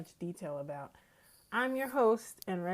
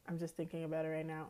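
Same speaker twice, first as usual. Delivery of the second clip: out of breath; faster than usual. Real, not acted. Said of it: "I'm also out of breath".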